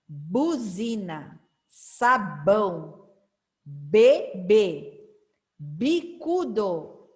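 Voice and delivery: each word read slowly, syllable by syllable; teacher reading a word list aloud; slow reading drill. Shown as a demonstration. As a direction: model the words clearly for children to repeat. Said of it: "Vamos ler novamente comigo".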